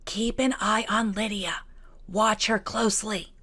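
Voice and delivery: slow urgent whisper. Acted. Kitty to Elizabeth, warning about Lydia in a whisper. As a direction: breathe a secret warning. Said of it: "began to whisper".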